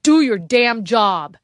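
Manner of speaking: high, loud frantic scream. A narrator's reading. Harrington screaming at Byers to kill, frantic. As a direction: scream the order in panic. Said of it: "Alfred screaming".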